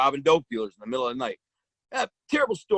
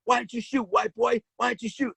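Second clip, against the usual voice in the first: retold yell; 8 semitones higher than usual. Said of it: "all of them yelling".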